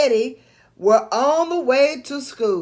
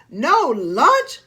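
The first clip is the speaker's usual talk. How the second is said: shout; 4 dB louder than usual. Acted. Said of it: "someone shouted".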